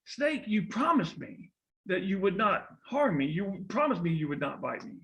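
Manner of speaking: crying out. Acted. Betrayed boy cries out to the snake that bit him, hurt protest. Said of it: "That boy cries out".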